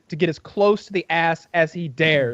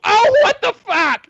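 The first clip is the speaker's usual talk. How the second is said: much higher, louder, slow startled yelp; startled Bobo cry; 6 dB louder, slower than usual. Retold or imitated. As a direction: yelp in shock. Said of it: "you hear him go".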